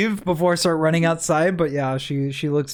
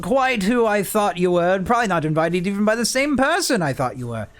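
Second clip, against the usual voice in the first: villain voice; 5 semitones higher than usual. Acted. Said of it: "Kadroth speaks up and goes".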